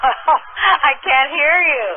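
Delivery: usual speaking voice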